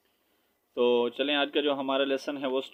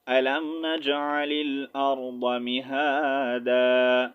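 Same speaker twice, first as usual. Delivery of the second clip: slow, drawn-out tajweed recitation; Quranic recitation; slower than usual. Shown as a demonstration. Teacher shows students how to stop at the verse end, slow recitation. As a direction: recite it slowly, stopping on the last word. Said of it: "تو پڑھیں گے".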